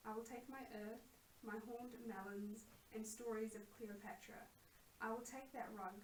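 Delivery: measured, evenly paced poem reading; poetry recital. Acted. Poet reading their own poem on air about what they will take, recital. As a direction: recite it line by line with deliberate pauses.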